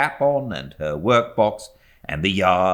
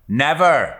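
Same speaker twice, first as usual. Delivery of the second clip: louder, higher firm cry; cried out; 9 semitones higher, 7 dB louder than usual. A narrator's reading. Servant crying out her refusal to the mother, louder. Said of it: "cried Peggotty".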